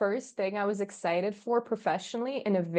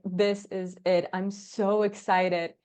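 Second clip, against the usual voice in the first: slow, emphatic excitement; retold hype; much slower than usual. Founder recalls starting her own company, slow emphatic excitement. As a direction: stretch out each word with relish. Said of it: "and I was hyped".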